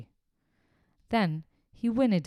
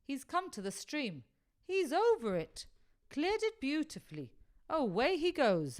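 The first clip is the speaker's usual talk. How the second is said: excited commentary; 6 semitones higher than usual. Acted. Dick watching horse, excited commentary.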